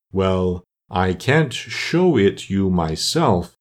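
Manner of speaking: slow, doleful storyteller, understated; lightly voiced mournful turtle. Mock Turtle resumes his school history, mildly mournful. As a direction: draw the words out with a touch of sorrow.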